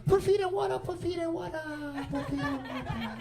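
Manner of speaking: put-on sing-song Asian accent welcoming customer; Asian nail lady accent. Nail salon lady greeting clients in Asian accent. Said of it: "she goes".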